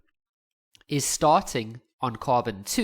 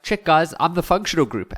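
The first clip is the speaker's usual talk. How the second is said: proud bromo; 4 semitones higher, 7 dB louder than usual. Pretend. Bromo brags at dinner table.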